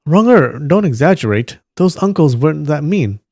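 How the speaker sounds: a touch of earnest objection; mild protest. Acted. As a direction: cut in to tone down a friend's tale. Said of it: "Guo Jing tried to interject".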